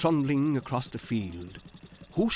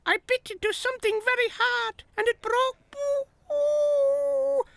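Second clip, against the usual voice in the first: high, loud whimpering moan; feeling very sorry for herself; 6 dB louder than usual. A narrator's reading. Rebecca the rake tells Tech about her tooth, high moaning. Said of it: "Moaned Rebecca the back rake".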